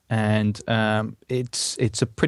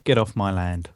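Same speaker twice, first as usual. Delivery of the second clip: gruff West Country farmer; West Country accent; 2 semitones lower than usual. Acted. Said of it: "You can't do that in a West Country accent".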